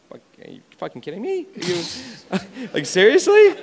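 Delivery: fast swearing that breaks into a laugh; laughing disbelief. Retold or imitated. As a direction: retell the shock, half laughing. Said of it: "And I'm like".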